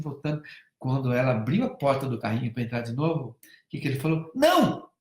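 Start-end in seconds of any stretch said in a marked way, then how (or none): 4.3-4.9 put-on loud, high childish shout of no; kid's sharp no. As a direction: bark it like a possessive little boy. Boy shouts at girl at car.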